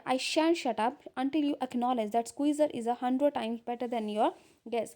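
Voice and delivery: reads the English lines out slowly and carefully; deliberate read-aloud of a script; measured reading of a classic play. Acted. Slow reading of play text.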